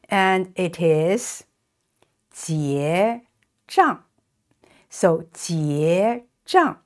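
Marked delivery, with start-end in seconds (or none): 2.3-4.0 结 then 账 apart; slow syllable model. Shown as a demonstration. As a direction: say each syllable separately. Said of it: "another way to express".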